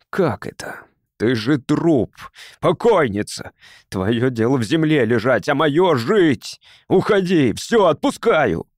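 frantic shouting hostage taker; hysterical shouting. A narrator's reading. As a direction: yell it in panicked hysteria. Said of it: "истерично орал в жуткое лицо".

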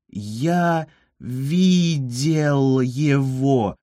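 very slow, strained words; forced out slowly. A narrator's reading. Cat fighting the ghost, squeezing words out slowly. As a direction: squeeze each word out against resistance. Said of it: "еле выдавил я медленно".

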